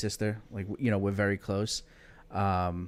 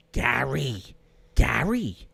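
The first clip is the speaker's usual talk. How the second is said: gruff janitor; 3 semitones higher, slower than usual. Retold or imitated. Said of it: "very gruff".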